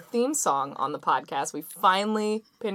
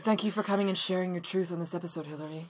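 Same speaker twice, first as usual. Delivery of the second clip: sincere on the surface, insincere beneath; sincerely insincere voice. Acted. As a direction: fake earnest host voice. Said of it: "saying it in that voice every time".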